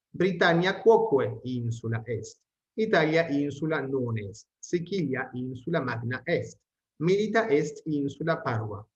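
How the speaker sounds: measured, careful textbook reading; steady read-aloud of Latin sentences; Latin text reading. Acted. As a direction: read each sentence out clearly for the class.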